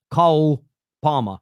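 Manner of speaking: "Cole Palmer" with a short open vowel, like "Col Parmer"; Cole in his accent. Shown as a demonstration. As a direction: say "Cole Palmer" the South London way. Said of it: "You're kind of mixing up the sounds".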